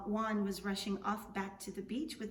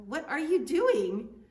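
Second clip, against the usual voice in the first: louder, slower, pressing for an answer; a nosy gentleman demanding to know, raising his voice; insistent demand; 5 semitones higher, 10 dB louder, slower than usual. Acted. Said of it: "said the caballero".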